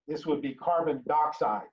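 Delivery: "dioxide" said as "doxide", vowel dropped. Shown as a demonstration. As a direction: run "dioxide" straight into "doxide". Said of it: "if I was to drop that I off of the di".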